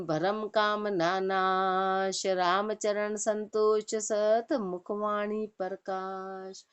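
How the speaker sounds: slow, drawn-out verse recitation; measured devotional recitation with long held vowels. Acted. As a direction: recite the couplet slowly, stretching the line endings. Recites scripture verses between explanations.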